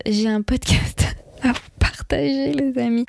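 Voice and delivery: whispered with a laugh, like sharing a secret; playful whisper. Real, not acted. Sharing her podcast pick with listeners, giggly whisper.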